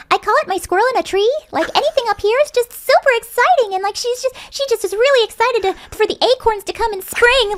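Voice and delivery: very high, excited squirrel-in-a-tree voice; squeaky upbeat squirrel. Shown as a demonstration. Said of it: "anything squeaky and upbeat".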